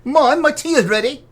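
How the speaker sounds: put-on a light high child's call; kid calling mom. Joking what kid uses the teapot sound, light child voice.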